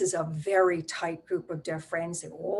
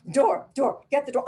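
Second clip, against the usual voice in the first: mother's scream; 6 semitones higher, 4 dB louder than usual. Retold or imitated. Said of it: "my mother is screaming".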